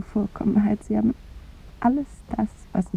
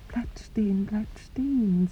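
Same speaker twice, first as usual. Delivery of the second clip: whispered, slowing on the repeat; fading whisper; 8 dB quieter, slower than usual. Acted. Woman whispering how her husband's heart stops. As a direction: let the words stop like a heart.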